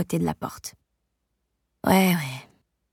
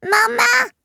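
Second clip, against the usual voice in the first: very high and louder "Maman!" held long; a louder, higher baby "Maman!"; louder baby babble; 5 dB louder than usual. Acted. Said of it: "plus fort cette fois".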